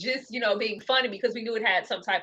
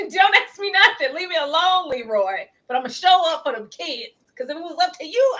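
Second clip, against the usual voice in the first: raised, heated tirade aimed at Leroy; angry ranting quote; 4 semitones higher than usual. Retold or imitated. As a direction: tell Leroy off, hot-tempered. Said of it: "But it wasn't one of them".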